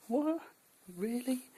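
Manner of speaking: high, loud "What? Really?"; stunned high squeak; incredulous. Retold or imitated. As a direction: shoot the voice up in disbelief. Stunned by host's reply.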